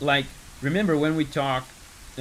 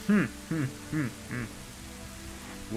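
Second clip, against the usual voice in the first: villain chuckle; 6 dB quieter, much slower than usual. Retold or imitated. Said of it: "his laugh".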